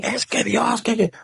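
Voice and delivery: high, stammering imitation of a complaining woman; mock angry woman. Priest mimics woman blaming him.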